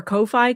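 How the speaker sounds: "Ko-fi" said KOH-fye, ending like "eye"; "Ko-fi" rhyming its end with "pie"; mispronounced as Ko-fi. Retold or imitated. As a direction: say "Ko-fi" with long O and long I. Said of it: "she doesn't know that it's coffee".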